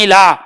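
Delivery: इलाहा with the weight on ला; इलाहा, ला stressed. Shown as a demonstration. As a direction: lean on the middle syllable ला in इलाहा. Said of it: "ला पे जो है ये बलाघात करते हैं".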